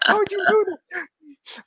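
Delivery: mock disbelief.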